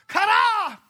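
high, loud Kara like a strike; Kara as a sharp shout. Pretend. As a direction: hit the word like a blow. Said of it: "sounds like when people hit stuff".

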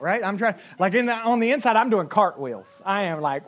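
usual speaking voice

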